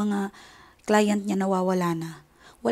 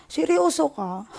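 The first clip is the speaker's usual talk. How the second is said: higher, stunned question; shocked disbelief; 6 semitones higher, slower than usual. Real, not acted. Vlogger reacting to the ungrateful sister, stunned and higher. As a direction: ask it like you truly can't believe it.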